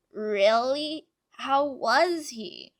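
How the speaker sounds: loud, drawn-out excited question; eager excitement. A narrator's reading. Plagg asking Tiki after an old friend, excitedly.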